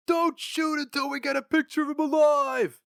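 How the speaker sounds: high, loud boss command; commanding shout. A narrator's reading. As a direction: order them from the limousine. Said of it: "commanded Flammer".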